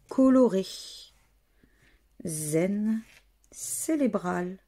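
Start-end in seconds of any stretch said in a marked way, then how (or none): 3.5-4.6 CÉRÉBRAL misread with an L, as "célébral"; mispronunciation. Real, not acted. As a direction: slip on cérébral, saying L for the first R. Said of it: "n'importe quoi".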